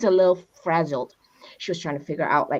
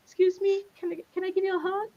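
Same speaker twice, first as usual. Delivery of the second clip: higher, softer and quick; gentle asking; 10 semitones higher, 6 dB quieter, faster than usual. Pretend. Person turning to a stranger offering a hug, soft. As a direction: ask tenderly, a little rushed.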